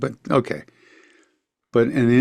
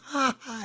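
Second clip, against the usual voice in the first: imitated laugh; 9 dB quieter than usual. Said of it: "and he's laughing".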